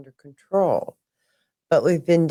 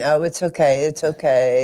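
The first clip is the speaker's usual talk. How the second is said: soothing reassurance; 4 dB louder than usual. Retold or imitated. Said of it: "and saying".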